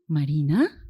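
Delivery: MARINA as a question, last syllable swooping sharply up; changed intonation. Shown as a demonstration. Teacher shows students a second intonation of a name, MARINA sharply rising. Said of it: "miren que he cambiado, eh, la entonación".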